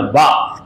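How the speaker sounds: با said alone as a clear bilabial b, lips pressed together; demonstrating the ba sound. Shown as a demonstration. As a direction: show با with both lips meeting. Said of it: "با کی آواز آپ نکالو،".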